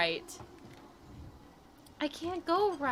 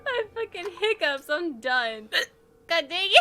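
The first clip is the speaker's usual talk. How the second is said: laughing; 5 semitones higher, 4 dB louder than usual. Real, not acted. Hiccuping drunk gamer losing it.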